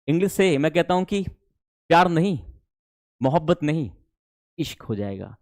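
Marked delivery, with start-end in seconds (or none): 1.9-5.4 dreamy build-up. Acted. Teacher hyping English as love, softening. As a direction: let it melt down to "इश्क".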